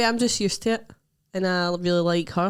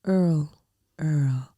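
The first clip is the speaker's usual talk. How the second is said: "Earl" as one syllable, English-style but sounding American; attempted English accent; 3 semitones lower than usual. Shown as a demonstration. Showing how English people say the name, shaky English accent. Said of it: "English people would say, like".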